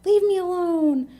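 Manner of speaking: high, loud imitated snap; retold angry brush-off. Addicted mother to her questioning daughter, imitated angry yell. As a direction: push them away as the fed-up mother.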